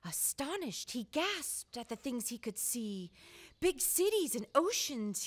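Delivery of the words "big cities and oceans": mild glee. Acted. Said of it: "he giggled with glee".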